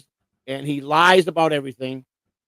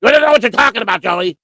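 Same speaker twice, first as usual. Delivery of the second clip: mocking quote; 4 semitones higher, 5 dB louder than usual. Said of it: "Cupcake will look it up and tell me".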